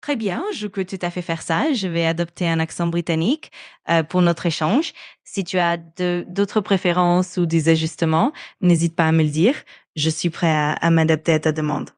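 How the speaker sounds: put-on French with a light British accent. Assistant playing an English person speaking French, light British accent. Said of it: "Supposons que tu adoptes un accent britannique".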